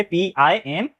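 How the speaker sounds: dictating letters slowly; slow spelling out. Shown as a demonstration. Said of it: "अगर rule पता है तो ये सही से लिखेंगे".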